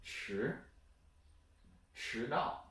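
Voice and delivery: "迟" rising, then "迟到"; second-tone demo. Shown as a demonstration. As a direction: model the rising tone of 迟 in "迟到". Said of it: "the second one is".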